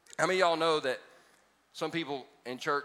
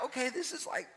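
suppressed laughter; 10 semitones higher, 8 dB quieter than usual. Acted. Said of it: "she's laughing silently".

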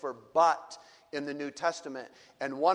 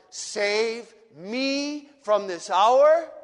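Jesus in anguish. Acted. Preacher voicing Jesus in anguish before the Father. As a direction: pour out an agonised prayer to the Father.

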